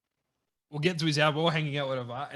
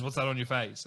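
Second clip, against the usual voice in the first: chill imitation; 4 semitones lower, 4 dB quieter than usual. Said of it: "chill with his voice".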